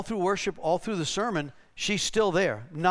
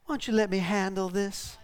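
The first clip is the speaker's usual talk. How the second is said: Southern Belle; 3 semitones higher, 3 dB quieter than usual. Retold or imitated. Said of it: "the Southern lady goes".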